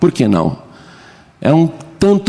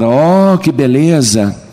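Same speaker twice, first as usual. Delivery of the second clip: mock groaning God; slower than usual. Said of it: "Não é gemendo que Deus vai falar".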